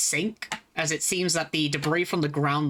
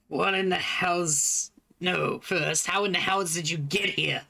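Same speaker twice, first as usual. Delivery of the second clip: mutant gatekeeper voice; 3 semitones higher than usual. Acted.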